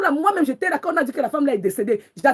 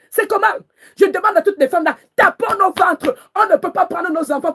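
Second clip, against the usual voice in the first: high and loud call to the women; rallying cry; 5 semitones higher, 3 dB louder than usual. Real, not acted. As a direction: rouse the women, angry and urgent.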